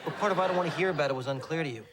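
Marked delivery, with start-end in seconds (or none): 0.4-1.1 pointed repeat of an ignored refusal; exasperated repeat. Acted. Patient repeating himself to a rambling friend, exasperated. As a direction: spell out the refusal with impatient emphasis.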